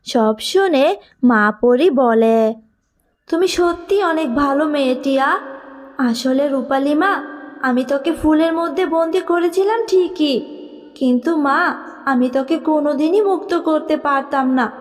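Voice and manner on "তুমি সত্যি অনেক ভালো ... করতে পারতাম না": tender fairy mother. Acted. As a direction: call your lost child home. Fairy mother thanks and explains.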